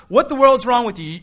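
loud exasperated yell at the sleeper; screaming warning. Pretend. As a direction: shout it at someone who won't wake up. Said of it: "I'm screaming at you".

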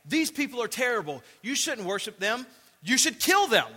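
lightly voiced troublemaker urging the crowd to kill; agitators stirring a crowd. Jews from Antioch stirring the crowd.

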